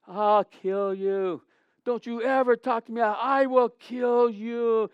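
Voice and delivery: slow, menacing retold threat. Goalie threatens the brother, slow menacing voice. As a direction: drag out the threat to kill.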